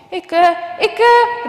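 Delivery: high, loud stammer, cutting in; stammering boy calling out. Acted. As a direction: blurt it out over the others, stuck on every word. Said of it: "roept hij er doorheen".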